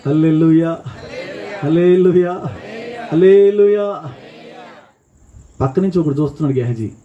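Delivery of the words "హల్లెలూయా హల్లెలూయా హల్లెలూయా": rousing church shouts; building hallelujah calls. Real, not acted. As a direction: whip the crowd up step by step. Leads congregation call.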